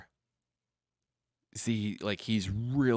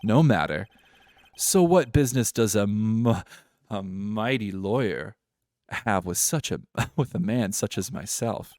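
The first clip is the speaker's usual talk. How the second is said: loud posh British disdain at the start, then easing; lightly faked posh British self-regard; 5 dB louder than usual. CEO questioning a mighty lawyer, posh British. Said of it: "I feel more posh now".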